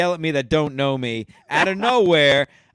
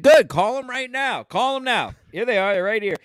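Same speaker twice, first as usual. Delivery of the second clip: defiant retort; 7 semitones higher than usual. Retold or imitated. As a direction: taunt her to call. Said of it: "I said".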